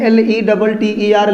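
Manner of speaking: slow letter-by-letter spelling; spelled out. Shown as a demonstration. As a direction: spell each letter out slowly for the class. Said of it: "अंग्रेजी में आप एक शब्द देखते हैं".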